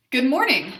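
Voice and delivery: loud, deliberate greeting; loud intentional voice. Shown as a demonstration. Therapist modelling functional phrases for repetition, loud. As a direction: project it clearly. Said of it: "practice using that loud and intentional voice".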